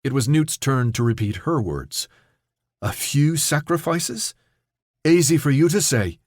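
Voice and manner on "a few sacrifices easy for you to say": calm. A narrator's reading. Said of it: "said the words so calmly".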